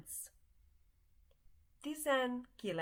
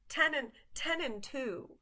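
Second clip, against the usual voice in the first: higher-pitched Chicago accent demo; 6 semitones higher than usual. Shown as a demonstration. Teacher showing how ten and sounds like tizen, Chicago accent. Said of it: "say it in a Chicago accent".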